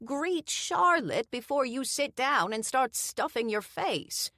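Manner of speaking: wife scolds husband about his manners; scolding wife. A narrator's reading. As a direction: scold him like a fussy wife.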